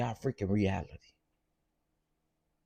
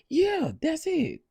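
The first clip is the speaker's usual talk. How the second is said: high, slow sarcastic yeah; sneering confirmation; sarcastic drawl; 4 dB louder, slower than usual. Real, not acted. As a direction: drag it out mockingly. Mocking the wedding special.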